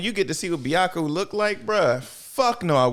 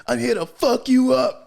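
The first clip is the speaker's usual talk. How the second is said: mock threat; 8 semitones higher, 4 dB louder than usual. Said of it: "He's like".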